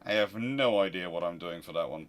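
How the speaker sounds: normal talking voice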